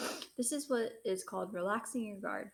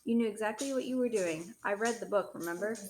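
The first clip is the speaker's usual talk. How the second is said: louder, hard accusing father; angry accusation; 2 semitones higher, 6 dB louder than usual. Acted. Father accuses Christopher of knowing what he did, angry and loud. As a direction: throw the accusation at him.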